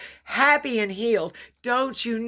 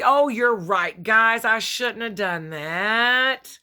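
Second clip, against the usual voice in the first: mock sheepish apology; 5 semitones higher, 4 dB louder, slower than usual. Mock apology Jesus never said.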